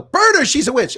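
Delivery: squealing comic crowd voice; Monty Python witch-hunt quote. Retold or imitated. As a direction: shriek it like a hammed-up Monty Python peasant. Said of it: "I did a little quote from Monty Python".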